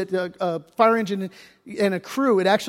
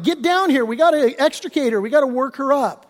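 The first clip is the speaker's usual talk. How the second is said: raised, urgent call down the hill; calling the crew down, higher and urgent; retold yell; 5 semitones higher than usual. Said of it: "So I yell at this crew".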